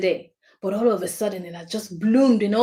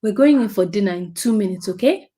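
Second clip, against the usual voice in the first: calm reassuring. Acted. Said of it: "You say".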